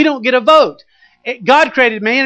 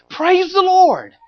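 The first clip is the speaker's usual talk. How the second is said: high, slow, stretched-out exultant praise; ecstatic praise; 10 semitones higher, 3 dB louder, much slower than usual. Acted. Peter overjoyed at the huge catch, drawn-out high exultant praise. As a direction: cry it out in triumph.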